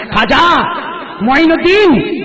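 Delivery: name rung out high and loud; loud proud call. Shown as a demonstration. Preacher shows the crowd how to proclaim the name loudly. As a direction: call the saint's name out with love. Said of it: "بلند آواز سے بولو نا".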